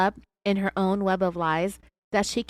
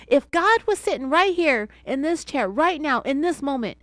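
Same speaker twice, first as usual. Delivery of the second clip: mildly raised, louder challenge; yelling back; 6 semitones higher, 5 dB louder than usual. Retold or imitated. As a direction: hammer the point at her. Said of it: "he yelled back at her".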